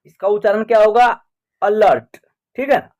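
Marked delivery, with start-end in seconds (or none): 1.6-2.2 अलर्ट opening on a short 'uh'; schwa in अलर्ट. Shown as a demonstration. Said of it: "ए का उच्चारण अ हो रहा है". (अलर्ट की शुरुआत छोटे अ से)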